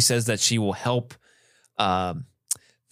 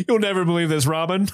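hammed-up, higher and on the edge of laughing; Roger Rees; 5 semitones higher than usual. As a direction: overact the breaking of news, pitched up. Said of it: "Roger Rees is really going hard".

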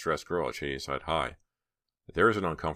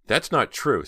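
loud, high angry snap; angry friend cuts her off; snapped; 8 semitones higher, 8 dB louder, slower than usual. A narrator's reading. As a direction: bite back at the accusation. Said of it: "Stephanie snapped".

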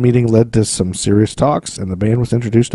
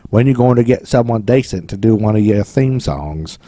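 weak English accent attempt; mock a drunk Englishman, badly. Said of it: "That's a terrible English accent".

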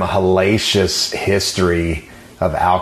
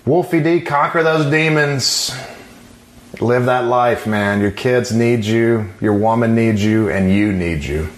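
wrestling promo. Shown as a demonstration. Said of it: "I'm trying to cut a promo now".

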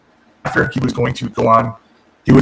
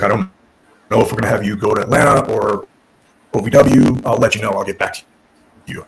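monotone voice; 3 semitones lower than usual. Retold or imitated. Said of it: "he's this monotone delivery".

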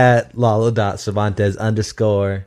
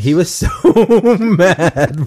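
amused, words breaking into laughter; laughing; 6 semitones higher, 3 dB louder, much slower than usual. Real, not acted. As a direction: laugh through the words, pitched up. Laughing about the clip's angry man.

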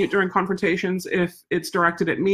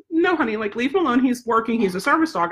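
high, kind but firm; gentle warning to a child; 4 semitones higher than usual. Retold or imitated. To the little kid poking her dog, higher and gently firm. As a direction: soothe the kid while you hold firm. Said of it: "And I said".

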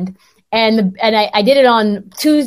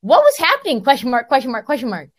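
program director reading text; 4 semitones higher than usual. Retold or imitated. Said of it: "He's like".

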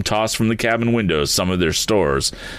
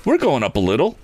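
hopeful; 8 semitones higher than usual. A narrator's reading. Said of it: "spoke Tom hopefully".

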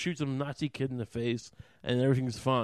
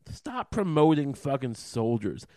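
louder and slower, each word pushed out; angry outburst; 6 dB louder, slower than usual. Real, not acted. Ranting at viewers about soldier worship, angry and slow. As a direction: scold the audience for cheering soldiers.

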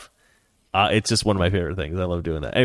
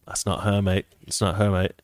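put-on mildly lowered English-accent mutter of denial; imitated English accent; 3 semitones lower than usual. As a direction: play a lightly voiced English mate. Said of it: "Also English, right?".

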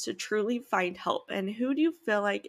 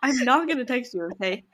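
laughing; 5 semitones higher, 5 dB louder than usual. Real, not acted. Laughing agreement with friend.

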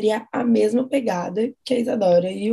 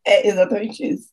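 nervous laughter. Real, not acted. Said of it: "Tá rindo de nervoso".

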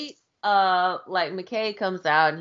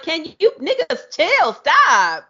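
laughing protest; 9 semitones higher, 6 dB louder, slower than usual. Retold or imitated. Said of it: "McKay was just like".

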